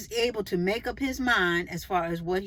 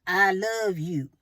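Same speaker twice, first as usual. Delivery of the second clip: slow, earnest I love you; a slow, sincere I love you; like you mean it; slower than usual. Shown as a demonstration. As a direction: say it slowly and mean it. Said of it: "now say it like you mean it".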